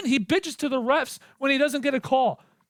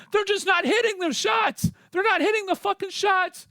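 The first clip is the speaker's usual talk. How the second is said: raised, exasperated yell; frustrated shout; 5 semitones higher than usual. Real, not acted. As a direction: let the frustration boil over. Ranting at the coach.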